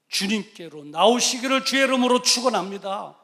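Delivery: loud, driving sermon cadence; preaching at full force. Acted. Preacher exhorting the congregation at full force. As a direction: hammer each line home from the pulpit.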